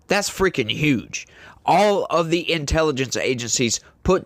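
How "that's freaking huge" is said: breathy whisper of disbelief; whispered aside. Real, not acted. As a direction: drop to a slower, hushed whisper. Aside about huge budget.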